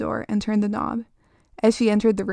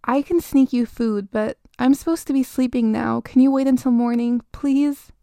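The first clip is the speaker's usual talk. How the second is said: desperate pleading; 3 semitones higher than usual. Acted. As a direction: beg desperately, voice lifting.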